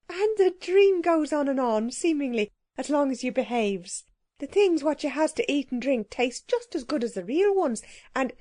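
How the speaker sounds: flirt boldly as the happy cook; lightly voiced cheerful cook. The cook speaks in a dream.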